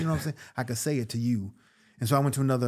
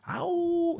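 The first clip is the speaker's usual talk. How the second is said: wolf howl. Retold or imitated. Wolf man howl bit.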